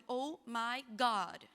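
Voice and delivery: slow, drawn-out exasperation; mock-exasperated, dragged out. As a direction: stretch each word in weary disbelief. Acts out dread at repeated song.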